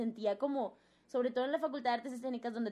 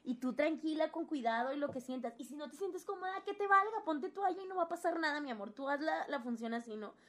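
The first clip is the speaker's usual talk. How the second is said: tender instructions; 4 semitones higher than usual. Retold or imitated. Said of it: "Me dice".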